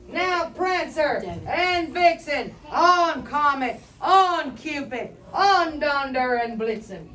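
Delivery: loud calling out the names; Santa calling reindeer. Acted. Santa shouting to his reindeer, loud calling. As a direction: call each reindeer by name, loud. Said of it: "he whistled and shouted and called them by name".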